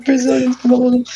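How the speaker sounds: high giggly repeat; laughing through the line. Real, not acted.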